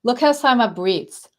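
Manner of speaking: mild mock of the dad ridiculing her breathing. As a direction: jeer at her in front of the family. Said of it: "he would gather the whole family around and say".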